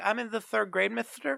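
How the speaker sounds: put-on high, lisping little-kid voice. Explaining how cartoon kids missing a front tooth talk: lisping little-kid voice. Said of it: "when a little kid is missing their, like, front tooth or whatever, they'll talk like this".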